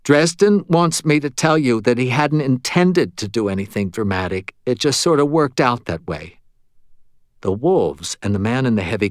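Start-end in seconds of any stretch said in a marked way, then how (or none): 0.0-6.4 lightly voiced medium, higher at the start; relaying medium. Medium passes the ghost's words to Murphy, lightly raised voice. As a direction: relay the message in a slightly raised voice.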